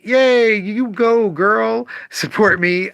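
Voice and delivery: high, bright fake cheer for himself; hammed-up go-girl cheer; mock cheerleading. Shop owner mocking a cheer he doesn't want, in a high cheer.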